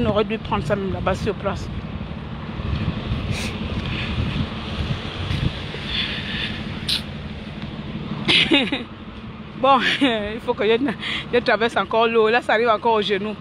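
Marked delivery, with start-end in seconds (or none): 1.7-9.5 breathy helpless laughter; long quiet laugh. Real, not acted. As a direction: laugh it off, defeated. Laughing while wading through floodwater.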